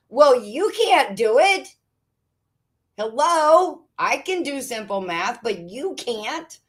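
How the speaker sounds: indignant scolding. Acted. Scolding the bank.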